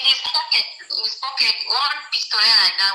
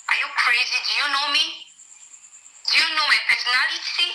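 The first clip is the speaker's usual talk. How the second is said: retold pompous challenge, raised pitch; imitated indignant arrogance; 3 semitones higher than usual. Woman retells a man pulling rank on her, indignant arrogance. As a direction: pull rank like an offended big man.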